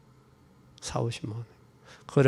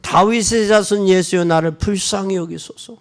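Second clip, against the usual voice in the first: higher, louder plea to Jesus; crying out to Jesus; 5 semitones higher, 4 dB louder than usual. Retold or imitated. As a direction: cry out for mercy from the roadside. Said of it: "뭐라고 소리 질러요?". (예수께 간절히 외치는 소경의 부르짖음)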